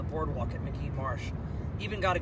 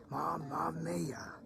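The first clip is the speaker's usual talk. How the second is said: whispered awe; 9 dB quieter, much slower than usual. Real, not acted. Awed murmur after seeing bird.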